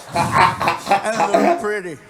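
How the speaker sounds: loud, drawn-out mock-drunk delight. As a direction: gush like a plastered child. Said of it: "drunk wasn't even the right word".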